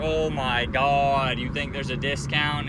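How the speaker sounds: drawn-out imitation of scorn, then a scoffing question; retold mocking disbelief. Old clerk making fun of the customer, mock incredulous. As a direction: groan it slowly like it's the stupidest question. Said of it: "like, that was the stupidest question".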